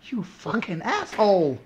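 mock angry rant. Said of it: "I bet he's like".

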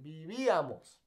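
Vivíamos with the accented í stressed, vi-VÍ-a-mos. Shown as a demonstration. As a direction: stress the second syllable of Vivíamos. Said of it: "Notice the accent".

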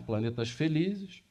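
ordinary talk

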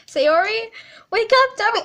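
calling out. Acted. Calling at a sleeping friend's door.

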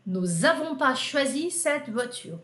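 slow spoken form. Shown as a demonstration. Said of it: "Se você quiser tirar o N".

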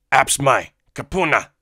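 frightened alien shout, high and loud; terrified creature begging for mercy; shaking Weequay voice. Acted. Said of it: "The voice was shaking, and judging by the accent".

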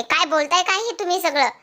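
a touch of exasperation, voice lifted high; imitating an upset wife, half-hearted anger; retold angry outburst. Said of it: "Kavya चिडते आणि म्हणत असते".

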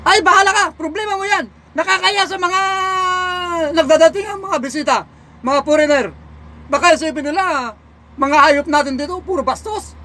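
hammed-up bossy police voice; scolding policeman. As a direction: play a pushy policeman lecturing a coachman.

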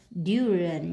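"durian" stressed on DU, the first syllable. Shown as a demonstration. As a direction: hit DU at the start of "durian". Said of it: "nhấn âm một".

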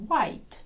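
"White" begins with lips rounded as if for a kiss, h silent. Shown as a demonstration. Teacher shows students "White" starting from a kiss. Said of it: "з поцілунка починаємо".

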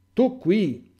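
high, loud astonished cry; shocked cry. Acted. All the disciples shout at Giovanni, startled. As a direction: cry out in shock at his arrival. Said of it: "gridano tutti".

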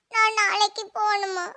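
tearful question after sobs; a touch of crying in the voice. Acted. Child asks whether they must go tomorrow, tearful. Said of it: "நீ எதுக்கு அழுறா?".

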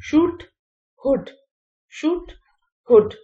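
"शूट" long and high against "हुड" short; vowel contrast. Shown as a demonstration. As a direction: contrast shoot and hood. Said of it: "The next vowel sound is oo sound". (शूट और हुड का फ़र्क)

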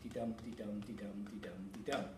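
soft heartbeat de-dum de-dum; heartbeat rhythm. Shown as a demonstration. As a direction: beat it out softly like a pulse. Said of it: "close to the heartbeat".

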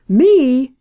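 loud furious roar. Acted. Horse dealer told he was suspected of murder, roaring. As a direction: explode with outrage at the accusation. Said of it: "roared Elkin".

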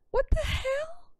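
high, slow, baffled what the hell; high, slow disbelief at the glitch. Real, not acted. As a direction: drag it out in disbelief.

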